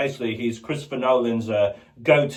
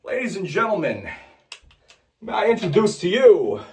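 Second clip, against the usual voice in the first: Christopher Walken. Retold or imitated. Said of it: "Chris Walken".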